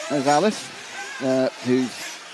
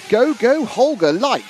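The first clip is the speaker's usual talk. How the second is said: excited cheer; 9 semitones higher, 5 dB louder, slower than usual. Acted. Reading a viewer's cheer.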